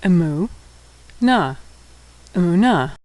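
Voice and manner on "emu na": syllable by syllable. Shown as a demonstration. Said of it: "and hey".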